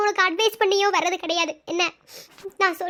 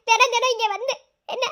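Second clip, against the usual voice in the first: words breaking into a sob; crying; 5 semitones higher than usual. Acted. Sister crying as she explains to her brother. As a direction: cry through the line.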